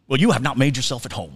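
lightly imitated Southern accent; a touch of Southern host. Host returning to his guest, light Southern accent. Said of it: "this amazing Southern accent".

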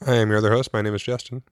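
chewing ice while talking; ice in mouth. Real, not acted. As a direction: talk around a mouthful of ice. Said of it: "Sorry, I'm chewing on ice".

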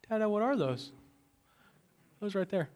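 put-on high little-kid voice asking; toddler voice. Preacher voices his toddler son.

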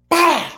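a loud high bah like a thrown rock; mock throw sound. Telling the podcast host about the strip club guy, a loud imitated impact. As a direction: burst out the noise of the hurled wad. Mimics dude throwing balled bill.

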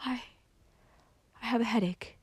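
soft, halting, feeble voice; faint. A narrator's reading. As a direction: falter weakly on the excuse. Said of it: "said Valancy faintly".

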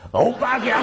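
a hint of a pleading sweetheart; coaxing Korean girl. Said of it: "过段时间她会说".

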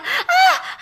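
high sudden squeak of fright; high frightened squeak; startled squeak. A narrator's reading. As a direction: jump at a tug on the tail. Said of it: "I squeaked".

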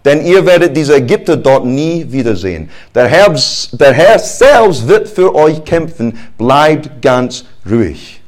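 a hint of a calm leader; soothing the frightened people, lightly voiced; Moses reassuring. Moses calming the people, mildly reassuring. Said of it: "doch Mose sagte zu dem Volk".

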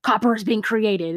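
mock teacher correcting a pupil. Teacher correcting a student in lab, lightly mocked. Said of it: "And he's like".

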